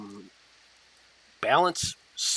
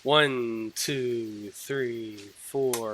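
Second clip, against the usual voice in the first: each count softer, like an echo; fading echo; 3 semitones lower, 4 dB quieter, much slower than usual. A narrator's reading. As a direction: let the count fade into the distance.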